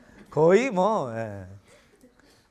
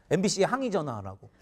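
ordinary talk

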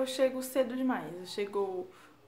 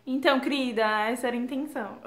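louder, cheeky comeback; sassy retort; 6 dB louder, faster than usual. Real, not acted. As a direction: answer with playful sass. Resposta irônica aos amigos. (resposta atrevida e irônica)

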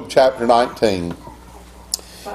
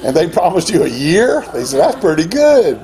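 laughing retold joke. Retold friend joking, laughing.

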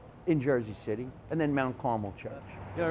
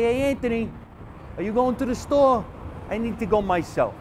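higher, louder shout to a neighbor; calling out; 7 semitones higher, 3 dB louder than usual. Retold or imitated. Kid calling to Anthony from the tenement window, calling out. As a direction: holler it up through an open window.

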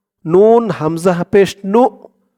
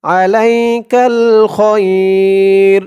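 আলাইকাল খয়র drawn out slowly; slow recitation; much slower than usual. Shown as a demonstration. Teacher reciting the joined phrase slowly.

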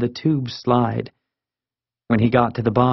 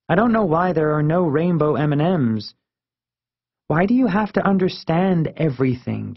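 put-on earnest young friend, higher voice; Marisol; 4 semitones higher than usual. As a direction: lift the pitch and argue it with conviction.

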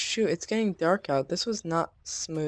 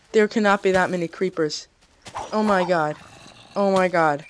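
panicked disbelief; 2 semitones higher, 6 dB louder than usual. Real, not acted. Creeper swarm.

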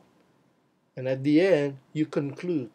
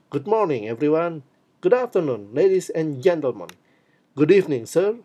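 energetic greeting; 4 dB louder than usual. Shown as a demonstration. Teacher showing students an energetic greeting, powerful and bright. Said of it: "Be powerful, be energetic".

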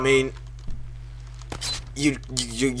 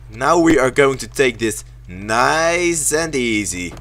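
slow and careful; 4 semitones lower, slower than usual. Real, not acted. Coaxing self through the level.

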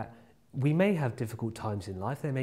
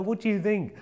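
mock angry; 4 semitones higher than usual. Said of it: "I was so angry".

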